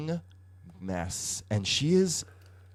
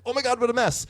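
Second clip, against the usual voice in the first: much higher-pitched retold exclamation; exasperated disbelief; 12 semitones higher, faster than usual. Fan reacting to a character's muddled history, scandalised disbelief. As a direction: act out a gossipy, scandalised reaction. Quoting own reaction to confused colouring.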